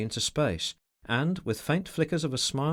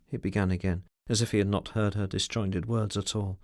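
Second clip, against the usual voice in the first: Haste, menacing; 5 semitones higher than usual. Acted. Man looming over a frightened woman, menacing. Haste voiced in read novel.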